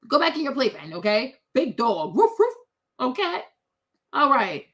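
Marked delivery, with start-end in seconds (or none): 2.1-2.5 high playful woof woof; mock dog bark. Mocking the little dogs with a high playful woof.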